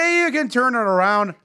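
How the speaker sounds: put-on Canadian accent, heavy northern lilt. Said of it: "the more north you go".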